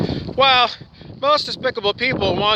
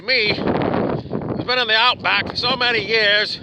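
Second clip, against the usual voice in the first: rough attempt at an Australian accent, slightly higher; shaky Australian accent; 4 semitones higher than usual. Self-styled sage pitching his Enlightenment Intensive, in a loose Australian accent. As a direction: play a wily old sage in a poor Australian accent. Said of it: "my shitty Australian accent".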